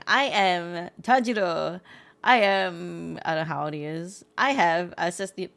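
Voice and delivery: a hint of a dubbed anime hero introducing himself; English dub anime intro. Listener mimics a dubbed anime self-introduction, lightly voiced. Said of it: "English dub anime self-introduction".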